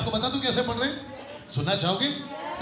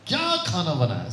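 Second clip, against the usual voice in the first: third way of asking; 4 semitones lower than usual. Shown as a demonstration. Teacher repeating the three tones, pointed क्या. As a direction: open on a long क्या. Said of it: "ये तो वैसे ही हो गया".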